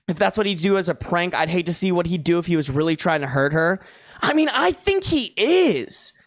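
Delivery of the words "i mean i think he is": indignant. Real, not acted. Indignant at the husband.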